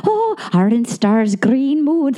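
cartoon Irish, Lucky Charms style; badly faked Irish brogue; hacky Irish accent. Shown as a demonstration. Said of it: "like, a little Lucky Charms".

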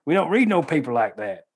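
lightly voiced Western barman; cowboy voice. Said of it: "That was my cowboy voice".

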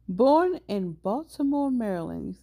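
Baltimore said as Baltamore, T dropped; Baltimore accent. Shown as a demonstration. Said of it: "y'all like how I pronounce the T?".

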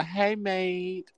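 lightly put-on Aussie greeting; Australian accent. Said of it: "you coulda did another one like".

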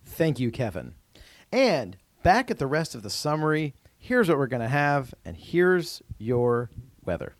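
playful anchor handoff; news anchor voice. Pretend. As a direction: pick up the broadcast like a host. Takes over as mock anchor.

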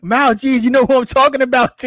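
high, loud words through laughter; laughing. Real, not acted. Vlogger reacting to a friend's message, laughing hard. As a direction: squeal it out while cracking up.

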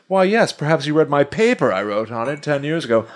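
lightly mocked pompous professor; a touch of haughty condescension; pretentious aggro. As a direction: imitate a self-important academic. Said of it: "it's pretty pretentious aggro".

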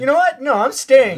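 loud, casual refusal; suddenly defiant. Acted. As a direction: drop the act and push back. Breaking out of the role-play.

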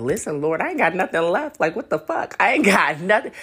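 vulnerable plea. Retold or imitated. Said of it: "moments where you're vulnerable".

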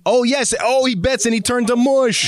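high-pitched, accidentally Jamaican-sounding lilt. Acted. Podcaster acting out the Mush movie character, Jamaican-sounding. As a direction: act it out high, sliding into Jamaican. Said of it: "You sounded Jamaican, bro".

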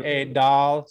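a light Fargo lilt on "Hey, doll."; mock Fargo accent, friendly. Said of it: "beautiful accent".

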